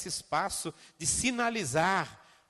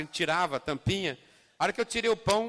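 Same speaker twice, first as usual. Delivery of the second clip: ordinary talk, nothing marked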